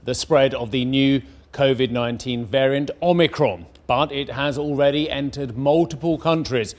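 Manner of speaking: measured newsreader delivery; crisp headline-story read; news read. Acted. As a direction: read it as a bulletin, landing key words. Reads the news bulletin.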